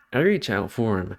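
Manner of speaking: usual speaking voice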